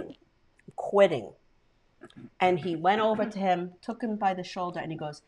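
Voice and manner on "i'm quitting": slow, drawn-out repeat. Retold or imitated. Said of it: "my father was like".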